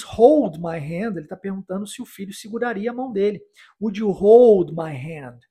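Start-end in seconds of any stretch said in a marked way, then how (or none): 0.0-1.2 slow, clear and a bit louder; slow model phrase. Shown as a demonstration. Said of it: "Quando ele diz". 3.8-5.4 slow and clear, a little louder; slow model line. Shown as a demonstration. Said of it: "Vamos repetir essa?".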